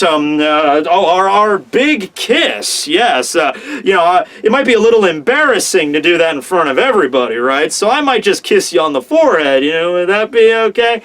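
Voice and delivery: halting, filler-strewn, bashful excuse; flustered stammer. Retold or imitated. Sanji fumbling to excuse himself from the big kiss, mock-flustered stammer. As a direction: imitate a nervous suitor tripping over his words. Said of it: "he goes on to stammer again".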